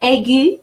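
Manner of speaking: Aigu said in French, eh-GU with a rising end; French accent name. Shown as a demonstration. French teacher naming the accent aigu for students. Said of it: "accents are the three".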